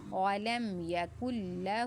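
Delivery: لہ with the final ہ drawn out a little; stretched ending. Shown as a demonstration. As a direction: lengthen the ہ in لہ. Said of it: "تھوڑا سا کھینچ کر پڑھیں گے". (لہ کی ہ کو تھوڑا کھینچ کر)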